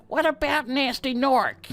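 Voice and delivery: half-hearted go at a goofy little dragon voice; imitating the silly dragon from a kids' game; Spyro's silly voice. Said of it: "He's got a really silly voice. He's like".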